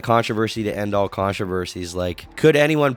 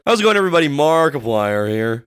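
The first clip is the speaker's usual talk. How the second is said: raspy, loud, higher YouTuber greeting; Markiplier impression; 6 semitones higher, 7 dB louder than usual. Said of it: "I sound like I've been smoking for eighty-seven years".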